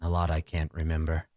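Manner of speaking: lightly voiced sorcerer lost in low, halting reminiscence; rambling sorcerer. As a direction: drift through hazy memories, pausing often. Plays rambling old sorcerer.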